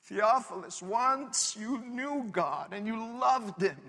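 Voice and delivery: soft, tender plea; pleading. Retold or imitated. Preacher pleading softly with the returning man. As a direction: gently beg him to come back. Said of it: "I'm pleading with this man".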